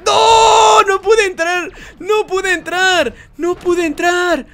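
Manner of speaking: loud high NO easing into high lament; frustrated outcry. Real, not acted. Gamer who failed to get in, frustrated high outcry. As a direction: cry out, then keep lamenting high.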